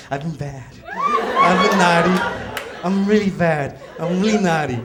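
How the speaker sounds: mock naughty confession. Flirty role play reply.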